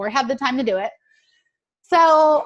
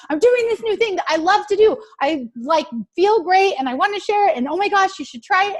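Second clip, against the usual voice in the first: excited sharing; 5 semitones higher than usual. Retold or imitated. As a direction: gush about something you love, brightly. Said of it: "And that's how I talk to people".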